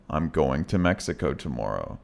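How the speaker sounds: "going to" kept full before "Mexico". Shown as a demonstration. Teacher modeling full "going to" before a place. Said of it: "It sounds like going to".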